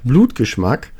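talking with a mouth full of blood; words thick round a bitten, bleeding tongue; bloody mouth. Real, not acted. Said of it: "wenn's immer so klingt, als ob ich mit vollem Mund spreche".

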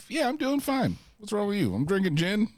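squeaky mock-casual voice; high and carefree, just chilling; mock breezy.

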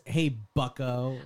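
slow, drawn-out lightly voiced pundit greeting; a hint of the lecturer, dragged out slow; Jordan Peterson. Mocking a pundit's catchphrase, slow and lightly voiced. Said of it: "That's what he says a lot".

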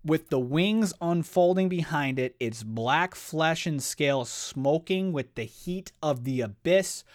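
hyped re-read. Real, not acted. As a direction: relish every monstrous detail.

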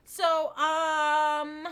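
giggling while trying to go on; laughing. Real, not acted. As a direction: still laughing. Still laughing after the hiccup.

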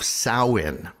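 "Samhain" said as SOW-in; correct Celtic pronunciation. Shown as a demonstration. Host introducing the Celtic festival, "Samhain" pronounced SOW-in. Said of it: "it's pronounced Samhain".

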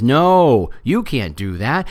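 loud drawn-out no, then firm; mock objection. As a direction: cut in with an emphatic correction. Acted objection from someone in room.

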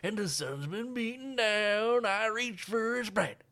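put-on high toothless old prospector voice. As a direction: gum the words like an old prospector. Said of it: "the toothless old prospector".

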